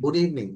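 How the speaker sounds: ইভিনিং in two syllables, eev-ning; ইভিনিং without its middle vowel; correct evening. Shown as a demonstration. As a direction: run v straight into n in ইভিনিং. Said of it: "এভাবে বলতে হবে".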